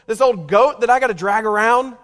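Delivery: hammed-up nagging wife tearing into her husband; mock belittling wife. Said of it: "She didn't say".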